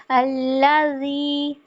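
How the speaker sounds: अल्लाजी with the ज held briefly at the tooth tips; held dhal. Shown as a demonstration. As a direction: hold the ज of अल्लाजी a moment. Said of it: "सिरों से लगा के थोड़ी देर". (अल्लाजी ज़ाल थोड़ा रोककर)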